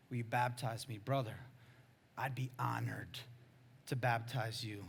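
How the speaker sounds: a quiet, sincere exchange with small pauses; tender. Retold or imitated. Two brothers agree on a baptism, tender and sincere.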